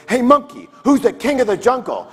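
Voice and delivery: high, loud challenge from a lion; boastful lion. Acted. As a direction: call out like the cocky king of beasts. Lion challenging animals in joke.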